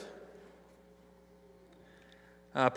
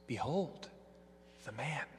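"Behold the man" spoken softer, gently rising in wonder; preacher revealing the deeper truth, soft and reverent; reverent awe; 12 dB quieter than usual. Acted. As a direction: let "Behold the man" ring out quietly, full of awe. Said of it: "with a deeper truth".

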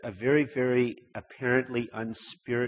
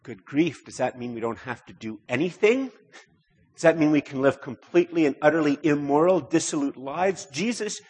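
higher, louder, scandalised protest; alarmed Pharisees; 5 semitones higher, 5 dB louder than usual. Retold or imitated. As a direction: voice the horrified Pharisees objecting. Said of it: "terrifying this would be to the Pharisees".

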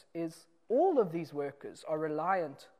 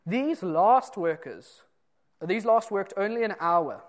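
complaint; 2 semitones higher, 8 dB louder, slower than usual. Retold or imitated. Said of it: "they come and they say to him".

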